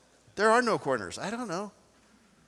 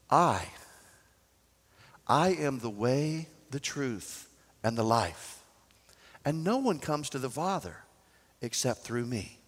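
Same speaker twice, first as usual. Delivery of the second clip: solemn Jesus; 5 semitones lower, 6 dB quieter than usual. Retold or imitated. Jesus answering his disciples, soft and solemn. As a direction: hush it down for the holy words.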